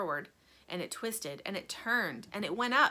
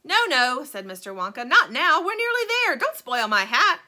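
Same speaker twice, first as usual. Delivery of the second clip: urgent; 5 semitones higher, 10 dB louder than usual. A narrator's reading. Wonka stopping her being sick.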